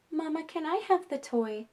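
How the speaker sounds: put-on high, sweet little-girl ask; polite toddler voice. Two-year-old rephrasing politely to her mom, high and sweet. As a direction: ask nicely like a small child. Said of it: "Let's try a soft voice".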